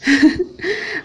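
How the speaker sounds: quick high laugh; a little sheepish laugh; short laugh. Real, not acted. Vlogger laughing at her own guess about the socks.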